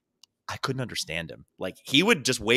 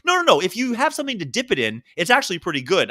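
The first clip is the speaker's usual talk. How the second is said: quoted cook; 4 semitones higher, faster than usual. Retold or imitated. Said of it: "He goes".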